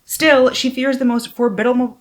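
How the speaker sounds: lifted, animated back-cover reading; expressive book-jacket narration; dramatic blurb read. Real, not acted. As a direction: read the blurb out with storyteller emphasis.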